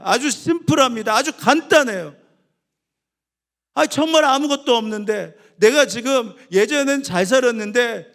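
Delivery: loud, high, urgent sermon delivery; impassioned pulpit voice; fervent preaching. Acted. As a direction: preach it with full force. Preaching at full force.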